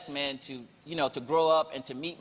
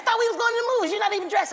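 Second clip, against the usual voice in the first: mock exasperated; 3 dB louder, much faster than usual. Quoting himself exasperated.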